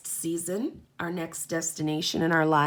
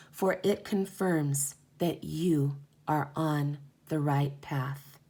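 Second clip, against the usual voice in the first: calm, measured card reading; reading aloud. Acted. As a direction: read it like a gentle oracle guide. Reads the oracle card guidebook.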